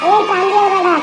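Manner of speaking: hollering at a friend to come over; calling out. Acted. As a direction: shout his name across the yard.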